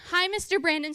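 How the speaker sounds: mock-innocent child greeting; sweet kid greeting. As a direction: chirp it like an innocent little girl. Camper sweetly greeting counselor.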